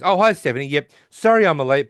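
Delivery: mock Sheldon greeting her stiffly; Sheldon impression. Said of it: "And he goes".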